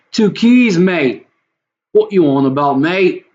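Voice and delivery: high, punchy mock-British exclaiming; British accent. Streamer joking to himself about two keys, mock British accent. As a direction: put on a cheeky British mate voice. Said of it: "I can't do a British accent".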